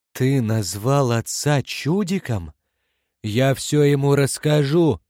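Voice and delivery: put-on indignant boy yelling a threat; child's shout. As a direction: yell it like a tattling little brother. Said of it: "завопил Читчай". (возмущённый детский крик)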